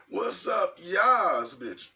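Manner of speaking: high, sassy drawn-out shout-out; hyped greeting. Real, not acted. Greeting the viewers before clearing the throat, hyped.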